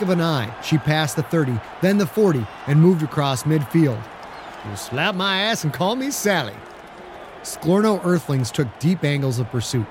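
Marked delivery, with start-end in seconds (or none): 4.6-6.5 amazed exclamation. Acted. Pine amazed by the run.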